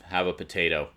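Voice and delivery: understated, pointed offer; politely worded, curtly meant; veiled shut-up. Retold or imitated. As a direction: offer it as a veiled order to stop talking. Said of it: "the implication was, "Shut your noise hole".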